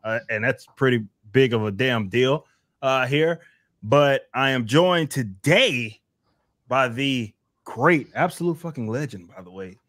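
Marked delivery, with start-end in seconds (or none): 3.8-9.8 hype introduction. Pretend. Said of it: "I had to introduce him like that".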